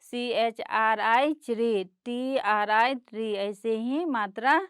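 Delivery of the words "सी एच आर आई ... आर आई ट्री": के आर आई spelled slowly, then क्री; slow spelling demo. Shown as a demonstration. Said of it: "उसी तरह". (धीरे-धीरे अक्षर बोलकर क्री)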